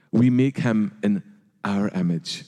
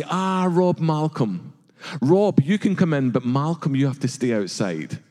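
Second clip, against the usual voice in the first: mock host; 3 semitones higher than usual. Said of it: "She says, imagine".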